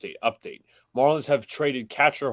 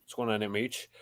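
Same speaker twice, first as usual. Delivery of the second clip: usual speaking voice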